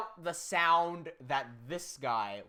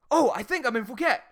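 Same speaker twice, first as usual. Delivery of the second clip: louder, higher dawning mock realization; dopey realization; 6 semitones higher, 8 dB louder than usual. Imitating Harry realizing he's in Phuket, mock dopey. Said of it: "he goes".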